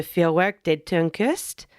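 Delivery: German name with a French accent. Real, not acted. Host misreading a German show name, accidental French accent. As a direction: slip into a light French accent. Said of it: "said that with a French accent".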